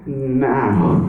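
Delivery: mild pleading lament, not real tears; understated tearful prayer; Mary's crying plea. Acted. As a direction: plead with the Lord, near tears. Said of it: "She's crying".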